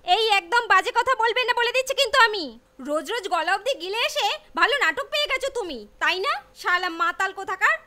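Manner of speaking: angry. Acted. Wife scolds drunk husband.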